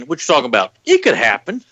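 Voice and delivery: put-on sassy sitcom kid quote; Gary Coleman catchphrase. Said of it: "Gary Coleman on J P's face saying".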